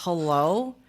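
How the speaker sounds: low, drawn-out imitated "hello?"; questioning, low mock greeting; curt phone answer. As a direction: mimic a lacklustre phone pickup. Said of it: "when somebody goes".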